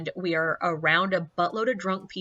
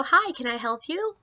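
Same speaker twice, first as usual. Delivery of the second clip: polite; 5 semitones higher than usual. Retold or imitated. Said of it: "politely go".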